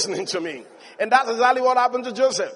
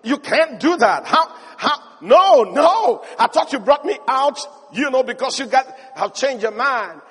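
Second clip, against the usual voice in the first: Joseph protesting; 3 semitones higher, 4 dB louder than usual. Retold or imitated. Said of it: "And he's like".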